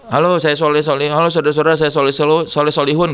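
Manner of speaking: lightly performed self-introduction to an audience; voice-note intro. Shown as a demonstration. Showing how he recorded the song's voice note, lightly performed greeting. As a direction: demonstrate your own rhythmic greeting, a touch presentational. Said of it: "gua ngomongnya gini".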